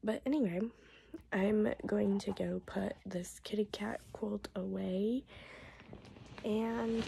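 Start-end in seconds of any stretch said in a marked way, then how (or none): 1.3-5.2 voice giving out. Real, not acted. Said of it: "my voice will last".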